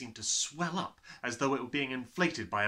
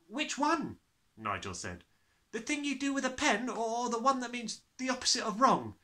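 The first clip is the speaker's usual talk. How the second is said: put-on boy's voice; 12 semitones higher than usual. Nigel asking.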